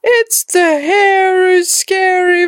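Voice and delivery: dad's voice. A narrator's reading. Dad reveals the monster is the dog, amused. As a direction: reveal the joke with a grin.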